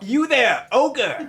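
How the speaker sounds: high, loud mock challenge; mock knight. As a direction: call out like a storybook knight.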